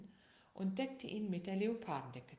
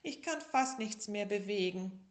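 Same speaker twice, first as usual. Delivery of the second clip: high, loud whiny tiger voice; sick little tiger; 4 semitones higher, 6 dB louder than usual. Acted. Little tiger tells bear how sick he is, high and whiny. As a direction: wail it like a sick little cub. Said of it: "rief der kleine Tiger".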